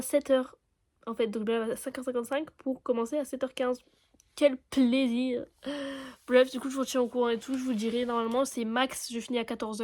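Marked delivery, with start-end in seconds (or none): 4.3-5.4 sarcastic. Real, not acted. Waking at 5:55.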